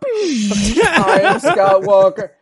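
slow mechanical robot announcement. Retold or imitated. Mocking Walker as a robot at the debate, slow robotic voice. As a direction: say it like a powering-up robot.

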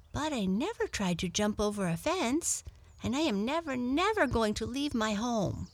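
earnest little rabbit. Acted. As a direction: lift the voice and vow it earnestly.

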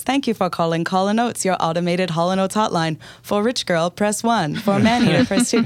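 mildly lifted, bright automated menu read; phone menu voice. Retold or imitated. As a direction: read it like a recorded hotline. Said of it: "an automated menu that says".

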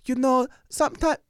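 lightly voiced Japanese tour guide; polite tour lady. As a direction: play the embarrassed polite guide. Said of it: "she goes".

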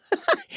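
a high, breathy burst of laughter. Real, not acted. Host laughs at the co-host's gasp, real laughter. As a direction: laugh out at the joke.

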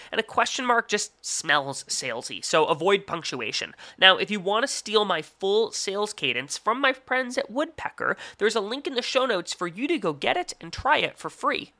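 lively podcast ad read with swinging pitch; sponsor ad read. Acted. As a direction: read it like a polished sponsor tip. Host reads sponsor tip.

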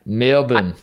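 put-on Aussie Melbourne, clipped second syllable "bn"; Australian accent. Shown as a demonstration. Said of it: "I can do Australian".

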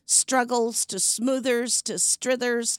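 Struggles, Smoothers, Strithers as garbled versions of Struthers; mangled surname. Retold or imitated. Guest listing how people botch her surname, mangled Struggles, Smoothers, Strithers. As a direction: list Struggles, Smoothers, Strithers, each wrong name set out distinctly. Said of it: "I've been called everything from".

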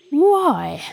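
slow, huffy gruff badger; a badger offended and huffing. A narrator's reading. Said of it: "slowly and not a little huffily".

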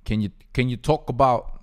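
lightly put-on English accent, imitating viewers; attempted English accent. Fans pleading for other football positions, attempted English accent. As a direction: try an English accent, not quite convincingly. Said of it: "I'm trying to do an English accent".

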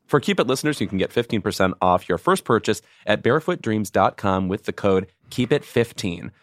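promo code read out clearly. Acted. Host gives listeners the discount code, clear ad read. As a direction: spell out the offer for listeners. Reads sponsor ad.

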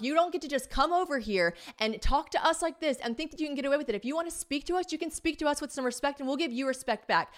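high, insistent telling-off; retold indignant scolding. Woman demands respect from man who came over, indignant scolding.

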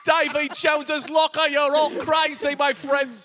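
very high, loud, drawn-out pirate cry; hammed-up pirate yell, far above normal pitch; shouting pirate. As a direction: bellow it like a crazed pirate. Shouting pirate in improvised sketch.

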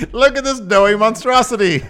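high, loud carnival barker. Pretend. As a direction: show off the freak. Continues barker bit.

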